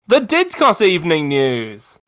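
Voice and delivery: upbeat radio station announcer. Acted. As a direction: introduce the news show like a DJ. Radio news intro.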